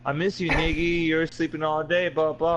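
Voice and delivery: mom impression. Son imitates mom coming to wake him, light mimicry.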